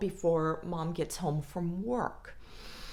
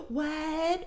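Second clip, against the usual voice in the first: mock surprise; 9 semitones higher than usual. Abuser playing innocent.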